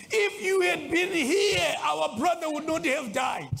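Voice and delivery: high, drawn-out plea of grieving siblings; mock crying lament. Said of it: "crying over their brother and saying".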